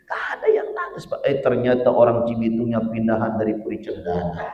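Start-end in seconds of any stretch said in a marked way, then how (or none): 0.0-1.2 laughing through the words. Real, not acted. Preacher joking to jamaah about his hometown, laughing. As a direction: let the laugh break through the line. Joke punchline about fake crying.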